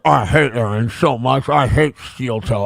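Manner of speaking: lightly voiced mumbling mock of a streamer; mocking the panhandler. Streamer mocks a rival's quote, lightly voiced mumble. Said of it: "He's like".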